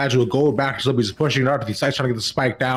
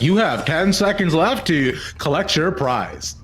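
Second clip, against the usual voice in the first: slow announcer voice, slightly higher; video game announcer; 5 semitones higher, slower than usual. Retold or imitated. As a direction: boom it out like a game show. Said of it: "like, a video game announcer".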